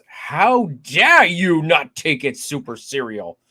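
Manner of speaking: put-on slow, failed stab at a Southern humorist's accent; hammed-up, swooping attempt at a Southern accent; Mark Twain accent. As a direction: try a drawn-out old Southern accent and miss. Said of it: "going into a Mark Twain accent".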